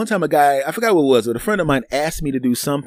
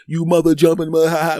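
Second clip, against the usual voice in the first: playful cursing, pitched up and louder; mock trash talk; 4 semitones higher, 3 dB louder than usual. Comic cursing his friend on the phone, playful trash talk. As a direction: trash a buddy with a laugh. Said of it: "trashing the person ... and cursing more".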